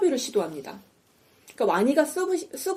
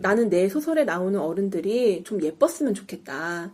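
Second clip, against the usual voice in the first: measured, low-key acted plea; mildly voiced, composed argument; calm persuasion; 3 semitones lower than usual. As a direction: reason with them evenly, slowing down. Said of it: "차분하게 설득을 합니다".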